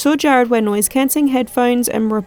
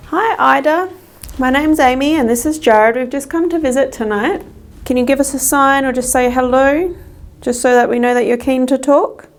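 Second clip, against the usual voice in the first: calling out; 2 semitones higher than usual. Real, not acted. Calling out to spirit.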